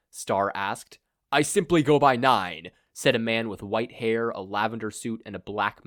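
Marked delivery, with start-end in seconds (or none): 1.3-2.7 louder, calm self-introduction; cool villain. Acted. Villain leader introduces himself to the hero, cool. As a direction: introduce yourself with menace.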